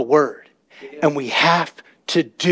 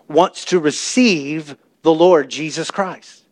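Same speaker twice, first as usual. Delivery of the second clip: slow, drawn-out altar-call invitation; mock pastor call; slower than usual. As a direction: imitate a pastor asking slowly. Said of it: "they have this moment where they say".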